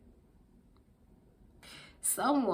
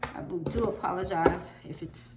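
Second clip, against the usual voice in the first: congested from a cold; sniffling, stuffy speech; sniffly voice. Real, not acted. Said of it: "I keep sniffling like this".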